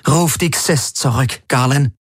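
lightly voiced imperious woman; Ylana, cold commander. A narrator's reading. Ylana ordering Galen beside the holoscreen, cold command.

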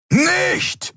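very high sharp cry; roared no. A narrator's reading. Keru crying out to stop Nelen, sharp cry. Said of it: "brüllte Keru".

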